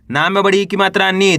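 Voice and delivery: नी held with a falling tune; spelling aloud. Shown as a demonstration. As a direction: spell it out, settling on a long नी. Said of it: "एक बार फिर से देखिए".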